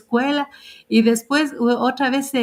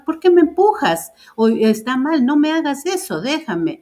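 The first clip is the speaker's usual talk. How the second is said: louder, higher demanding why; firm protest; 7 semitones higher, 3 dB louder than usual. Shown as a demonstration. Mother modelling for Josué how to protest a shove, loud and high. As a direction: stand up for yourself out loud.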